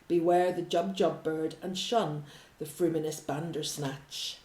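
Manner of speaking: measured, mysterious poem reading; Jabberwocky read aloud with gentle drama. Acted. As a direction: read it like an old ballad, slowing on the jaws that bite.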